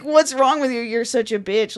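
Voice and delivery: cheating partner lashing out, mock angry; mock angry retort. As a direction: snap back in mock fury. Acted cheater insulting partner.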